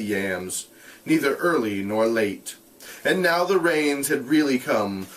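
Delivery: steady read-aloud voice; measured narration; story narration. A narrator's reading. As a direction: read the novel to the class. Reads novel aloud to class.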